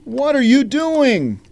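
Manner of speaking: high, loud startled question; surprised. Acted. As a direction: caught him in the act. Catches him eating donut.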